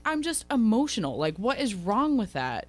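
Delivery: mock-indignant self-defence; defensive. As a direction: imitate her protesting, pitch lifted. Retelling Kelsey defending herself.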